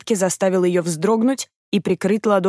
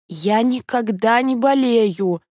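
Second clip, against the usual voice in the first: slow, hoarse, "болею" drawn out long; hoarse insisting; 4 semitones higher, much slower than usual. A narrator's reading. Feverish girl insists she never gets sick, slow and hoarse. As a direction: rasp out "Я никогда не болею" slowly, stubbornly insisting. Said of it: "уверяла она охрипшим голосом".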